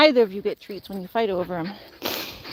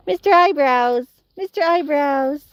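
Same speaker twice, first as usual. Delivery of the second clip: affectionate teasing; 3 semitones higher, 4 dB louder, slower than usual. Real, not acted. Teasing nickname to dog.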